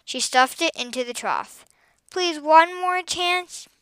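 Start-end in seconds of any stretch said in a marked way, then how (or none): 2.1-3.7 high, drawn-out plea; begging. A narrator's reading. Boy to farm girl after his prank, begging. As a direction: wheedle slowly, up high. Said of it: "begged Josh".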